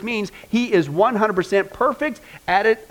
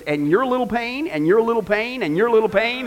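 put-on pointing at each child; 4 semitones higher than usual. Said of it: "he goes".

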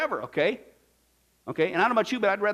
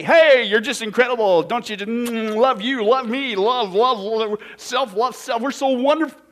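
mocking; 5 dB louder than usual. Mocking the world's self-love.

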